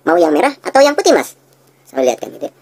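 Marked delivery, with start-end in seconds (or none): 0.0-1.4 "putih" lifted high, higher and louder; rising on putih. Shown as a demonstration. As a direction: sell the white one with the tune. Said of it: "dengan intonasi seperti itu".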